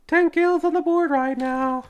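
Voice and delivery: high hype announcer call. Acted. Hype announcement of kill count.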